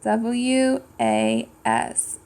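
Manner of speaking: slow letter by letter "A N D"; slow spelled letters; spelling aloud. Shown as a demonstration. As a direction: spell each letter slowly for kids. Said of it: "How do we spell was?".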